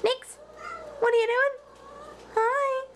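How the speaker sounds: high-pitched chat with a pet; pet talk. Real, not acted. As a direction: answer your pet as if it just spoke, up high. Talking to a pet.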